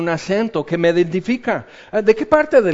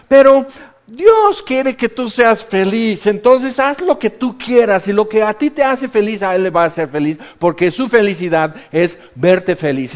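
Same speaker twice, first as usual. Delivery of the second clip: mocking feel-good preacher; 5 semitones higher, 5 dB louder than usual. Preacher mocks feel-good sermons, in a high sugary voice. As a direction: ham up the easy gospel, sing-song and sweet. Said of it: "Eso es lo que hoy se predica".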